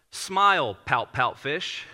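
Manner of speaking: title read out slowly with a punched first word; imitating someone announcing a picture book. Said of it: "And she goes".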